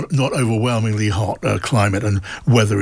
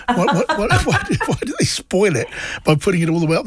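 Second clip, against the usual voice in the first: high-pitched, stammering mock incredulity; retold laughing disbelief; 8 semitones higher than usual. Presenter retelling a taxi driver's laughing tale, in mock disbelief. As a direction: retell it amused, pitch leaping up on the questions. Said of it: "laughing about an American".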